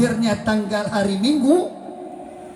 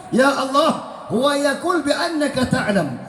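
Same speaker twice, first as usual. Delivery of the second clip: Jibril reporting; 6 semitones higher than usual. Acted. Jibril reports back to Allah.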